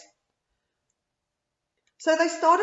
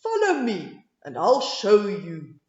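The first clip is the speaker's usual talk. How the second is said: mole; 3 semitones lower, 6 dB louder than usual. A narrator's reading.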